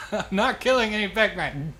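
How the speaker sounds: loud laughing protest. Real, not acted. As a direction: laugh through the denial. Laughing denial.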